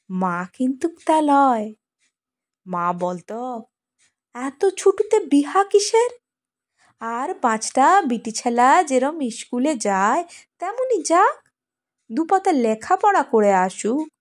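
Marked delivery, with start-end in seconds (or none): 4.3-14.1 lightly voiced village mother, pitched higher; protesting mother. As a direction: quote a mother arguing for her daughter's schooling, higher.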